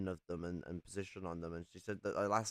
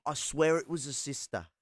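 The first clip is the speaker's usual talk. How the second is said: mock Aussie owl; 5 semitones higher, 5 dB louder than usual. Owl repeats punchline.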